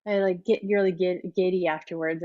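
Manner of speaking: losing her voice, slightly hoarse. Real, not acted. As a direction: talk through a tired, hoarse throat. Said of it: "I get absolutely losing my voice".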